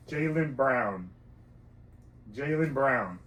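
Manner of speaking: slow, exaggerated mouthing; over-articulated. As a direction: spell it out with big lip movements. Mouthing names for lip reading.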